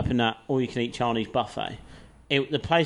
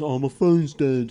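laughing while quoting; 4 dB louder, slower than usual. Retold or imitated. Retold panic on the train.

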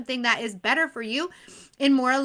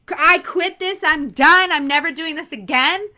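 a burst of mock frustration, louder; frustrated quitting; 3 semitones higher, 6 dB louder than usual. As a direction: throw in the towel, fed up. Acted quitting after bad day.

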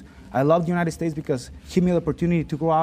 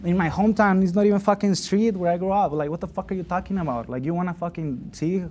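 angry retort; 4 semitones higher than usual. Retold or imitated. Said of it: "I was thinking of this".

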